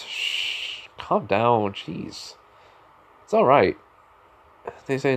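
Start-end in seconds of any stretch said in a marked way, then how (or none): 0.0-3.8 soft shushing, calming them; soothing hush. Acted. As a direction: hush them gently like crying kids. Hugs and hushes crying girls.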